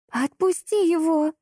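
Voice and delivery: high, slow shriek. Acted. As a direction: screech the order. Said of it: "взвизгнула Марибель". (взвизгнула)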